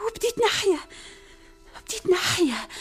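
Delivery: rising rapture. Acted. Princess recalls coming alive.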